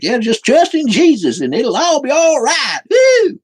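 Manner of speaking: high, loud mocking trust-in-Jesus zealot; mock believer. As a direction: whoop it up like a giddy believer, hammed-up. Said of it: "people are just like".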